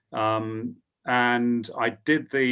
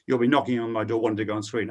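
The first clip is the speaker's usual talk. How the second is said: put-on laughing through a lightly held Australian accent; 3 semitones higher, 3 dB louder than usual. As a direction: keep the Australian boss voice, breaking into a laugh. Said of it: "so he said in an Australian accent".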